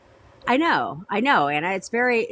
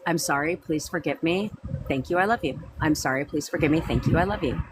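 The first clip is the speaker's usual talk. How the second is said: gentle recitation. Shown as a demonstration. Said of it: "say those four phrases".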